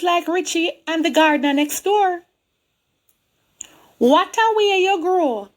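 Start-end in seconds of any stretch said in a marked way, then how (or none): 4.0-5.5 higher, lilting Jamaican repeat; Jamaican church folk. Retold or imitated. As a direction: echo the church ladies' Jamaican lilt. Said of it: "They don't speak properly the way we do".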